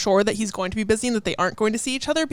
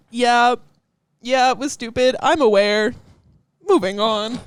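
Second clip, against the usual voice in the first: dismissive; 5 dB louder than usual. Retold or imitated. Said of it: "She's just like".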